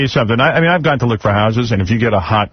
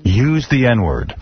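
mock-grand announcer. Host introduces the lie detector man, mock-grand announcer. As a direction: stretch it out for suspense.

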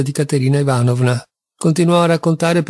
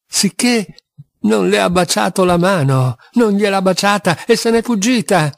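morbid, gleeful cackling talk pitched higher; a hint of unhealthy glee; gloating laughter; 5 semitones higher than usual. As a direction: revel in it, half laughing. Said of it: "sghignazzava in una specie d'esultanza morbosa".

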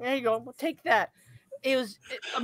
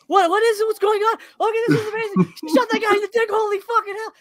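amazed audience; 10 semitones higher, 3 dB louder than usual. Retold or imitated.

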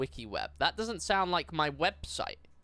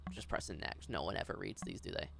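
whispering; 11 semitones lower, 11 dB quieter than usual. Real, not acted. Muttering to self.

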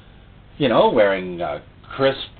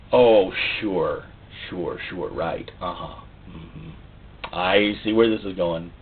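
sarcastic; 7 semitones lower, 5 dB quieter, slower than usual. Pretend. Mocking sceptical listener.

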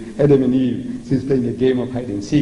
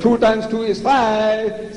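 slow, higher decree of nonsense; mock Father; 6 semitones higher, much slower than usual. The Father to his Son, a slow mock decree. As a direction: state it slowly like an order. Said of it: "He says".

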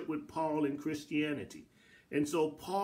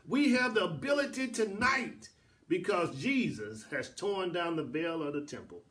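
preaching fervor; 3 semitones higher than usual. Acted. Preacher exalting God to the congregation, fervent proclamation.

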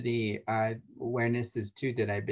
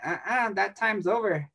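higher, sassy "Uh-uh"; firm refusal; 8 semitones higher than usual. Retold or imitated. Garrett refusing needy client, sassy firm no. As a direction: cut them off, playfully firm.

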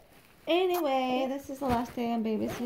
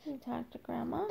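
soft whispered question; whispering; 7 dB quieter than usual. Real, not acted. Repeats question, then whispers.

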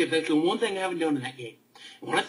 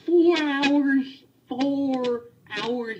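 angry outburst; 9 semitones higher, much slower than usual. Real, not acted. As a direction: spit it out in disbelief. Ranting about encounter length.

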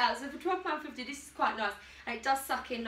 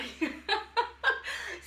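breathy giggle; 8 semitones higher than usual. Real, not acted. Vlogger admitting she has no fake tan on, breathy giggle. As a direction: giggle it out, a little embarrassed.

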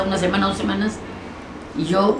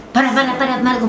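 higher, urgent reenacted plea; urgent request to stop; 7 semitones higher than usual. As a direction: call out to the driver to pull over. Urging driver to stop the car. (pedido urgente de parar)

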